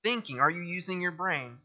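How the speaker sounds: a light mocking prophet, voice rising on what; sarcastic Isaiah. Preacher voicing Isaiah mocking idol makers, lightly sarcastic. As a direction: roll your eyes at the idol makers. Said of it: "just that sarcastic".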